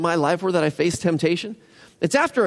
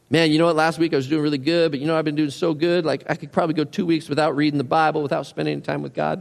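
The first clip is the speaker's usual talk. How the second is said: overconfident; faster than usual. Pretend. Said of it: "overconfident Christian voiced".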